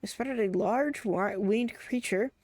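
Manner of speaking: lightly acted character dialogue; gently performed NPC voices; voicing game characters. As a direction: read the quest lines with a little theatre.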